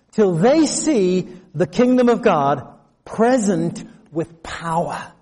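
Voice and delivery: slow, weighty, every word laid down; solemn scripture reading. Shown as a demonstration. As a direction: read Jesus's promise with full authority. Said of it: "This is not some politician".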